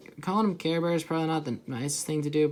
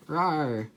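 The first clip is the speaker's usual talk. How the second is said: mock cat roar. Imitating the drawn cat's roar.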